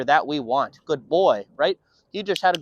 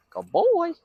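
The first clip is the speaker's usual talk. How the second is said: whispered praise; 11 semitones higher than usual. Real, not acted.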